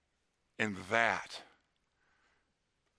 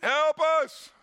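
put-on much higher, louder panicked kid's cry; child yelling for mom; 6 dB louder, much slower than usual. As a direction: yell for help like a frightened little boy. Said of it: "William started yelling".

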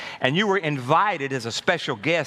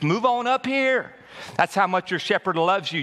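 joyful welcome; 5 semitones higher than usual. Acted. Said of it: "He sits down beside Jesus".

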